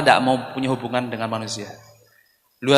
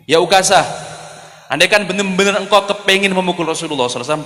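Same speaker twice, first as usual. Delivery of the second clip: raised, higher-pitched challenge; unable to hold back; 4 semitones higher than usual. Acted. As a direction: call out to Ukasah in protest. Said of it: "Abu Bakar ora tahan dia". (seruan lantang tak tahan)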